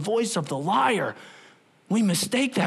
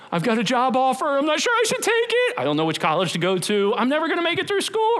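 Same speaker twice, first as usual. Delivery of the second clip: mock panic; 6 semitones higher than usual. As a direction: rattle off the worries in a panic. Panicking believer in meme.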